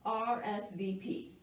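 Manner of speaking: measured, expressive picture-book narration; story reading to children. A narrator's reading. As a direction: read it aloud to young listeners with clear phrasing. Reads picture book aloud.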